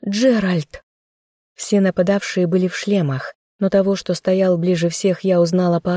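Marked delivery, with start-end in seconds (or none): 0.1-0.8 startled cry of a name; sudden gasp of recognition; a shocked cry at the window; surprised recognition. A narrator's reading. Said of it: "округлив глаза от удивления".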